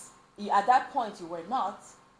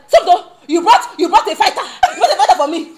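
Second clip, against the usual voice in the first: loud, high, through laughter; laughing mock alarm; 8 semitones higher, 13 dB louder, faster than usual. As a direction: retell the shock while cracking up. Retold reaction to shouting friend.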